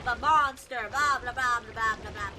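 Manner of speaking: loud, playful monster voice; monster roar. Pretend. Playing a monster, roaring.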